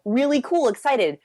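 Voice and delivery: privately thrilled, lightly acted; excited. Man on a date, cheering internally, excited. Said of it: "on this very excited level".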